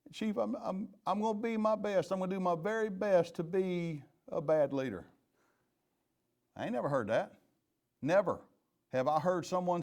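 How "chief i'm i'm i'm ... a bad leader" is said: a higher, keen quote of a new supervisor, lightly voiced; eager new supervisor. Chief mimics an officer thanking him for promotion, lightly higher and eager.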